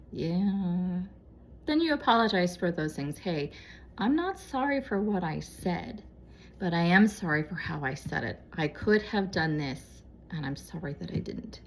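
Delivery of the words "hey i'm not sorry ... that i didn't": a soft, earnest apology that owns the hurt; genuine, careful apology to someone you hurt; sincere specific apology. Shown as a demonstration. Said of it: "Is quite different than".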